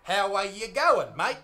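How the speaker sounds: "How are you going, mate" drawn out slowly, every word full; tourist's laboured "How are you going, mate"; over-enunciate all of "How are you going, mate"; wrong Aussie slang. Retold or imitated. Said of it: "come up to an Australian and say".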